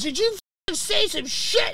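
high, pushy accusing voice; mock angry confrontation. A rock drummer storming up backstage, mock angry and high. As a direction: come at him like you're about to grab him.

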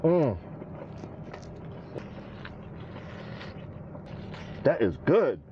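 humming while biting food; chewing a soaked bite; mouth full of sandwich. Real, not acted. Seen 3: Sandwich dipped in soup, then bitten; mouth on it while humming.

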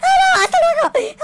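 loud, high panicked yell with laughter; panicked shout. Pretend. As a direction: yell it out as you flee, laughing. Fleeing mother, shouting.

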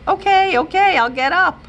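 giggly okay. A narrator's reading. Dog licking, giggling girl.

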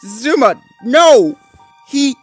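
high, horrified protest; loud, distressed and shaky. A narrator's reading. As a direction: plead in alarm, then falter. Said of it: "his voice went shaky".

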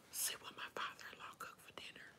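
fast secretive whisper; quick hushed whisper. Real, not acted. Whispered aside.

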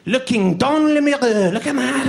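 put-on French-accented English sprinkled with French; mock French accent. The French comparing potato to apple, in a French accent. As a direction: play a Frenchman mixing both languages. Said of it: "I only say certain phrases in French".

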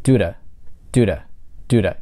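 Do-da with a quick tapped d-like sound for do to; flap T linking. Shown as a demonstration. Teacher drills the flap T linking do to. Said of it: "Через flap T".

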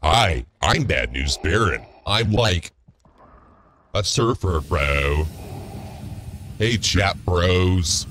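lazy surfer-bro greeting; Bad News Baron. The speaker mimicking another streamer on request, slow bro greeting. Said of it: "do your best Bad News Baron impression".

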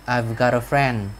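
slow "I've got a friend" with the V sounded; "I've" with an audible V, said slowly; clear V. Shown as a demonstration. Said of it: "rõ cái chữ V ra cũng được".

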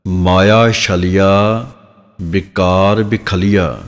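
slow, drawn-out scripture reading; slow recitation. Shown as a demonstration. Teacher reciting the verse for students, slow recitation. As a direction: recite it word by word, stretching the vowels.

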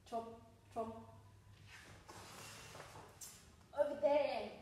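suspenseful storytime voice; sing-song jungle story read-aloud; reading to children. Acted. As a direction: build mystery for the kids.

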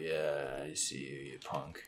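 soft whispered threat; quiet taunt. Real, not acted. Sneaking up on a foe, whispered taunt. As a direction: hush it like stalking prey.

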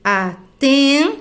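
very slow, each syllable drawn out; stretched syllables, stopping on the stressed one; syllable-by-syllable scansion. Shown as a demonstration. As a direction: scan the verse one syllable at a time. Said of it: "eu só conto até a sílaba tônica".

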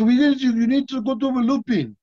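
imitating Jean-Claude pushing him to go; lightly voiced excited friend giving orders; Jean-Claude urging. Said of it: "He goes".

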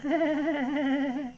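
high soft little giggle; squeaky gnat giggle; tiny giggle. A narrator's reading. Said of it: "the little voice".

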